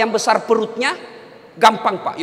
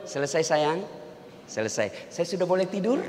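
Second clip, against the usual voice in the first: soft, much quieter, a timid plea; meek pleading husband; 9 semitones lower, 10 dB quieter than usual. Acted. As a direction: beg gently to be let off to sleep. Suami memohon setelah istri ngomel. (suami memelas dengan suara pelan)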